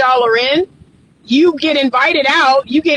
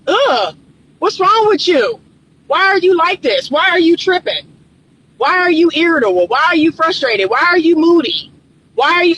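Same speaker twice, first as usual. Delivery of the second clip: exasperated, pitched-up nagging questions; annoyed partner; 4 semitones higher than usual. Retold or imitated. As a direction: play the fed-up partner snapping back. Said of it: "the partner is like".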